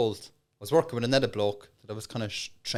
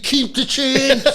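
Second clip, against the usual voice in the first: slow cool gang leader; 12 semitones higher, 8 dB louder, much slower than usual. Retold or imitated.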